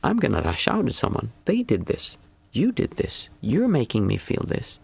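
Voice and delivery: lashing out, blaming. Retold or imitated. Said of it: "and then we say".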